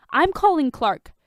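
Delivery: Tony giving up on the experiment; exasperated. A narrator's reading. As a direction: done with this mess.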